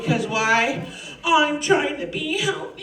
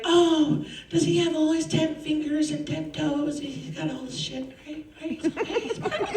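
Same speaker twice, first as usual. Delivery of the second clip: sweet mom voice; 3 semitones higher, 5 dB quieter than usual. Retold or imitated. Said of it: "are like".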